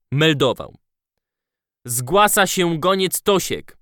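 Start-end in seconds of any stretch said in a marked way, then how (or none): 1.9-3.8 put-on lisping child, missing milk tooth; young boy lisping through a gap; childish lisp. A narrator's reading. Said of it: "Seplenił dziecinnie".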